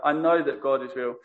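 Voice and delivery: "know" stressed, the rest falling away. Shown as a demonstration. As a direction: lean on "know" with certainty. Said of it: "you could emphasize that".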